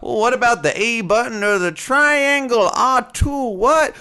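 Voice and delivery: baffled player fumbling for buttons; confused gamer. Retold or imitated. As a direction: sound lost and confused. Confused player asking about buttons.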